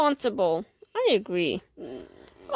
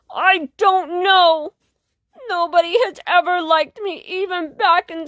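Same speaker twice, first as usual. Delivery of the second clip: sad. Acted. Sad fish confesses.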